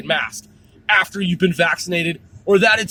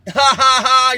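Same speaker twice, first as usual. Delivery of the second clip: laughing; 5 semitones higher, 7 dB louder than usual. Real, not acted. Laughs at own joke.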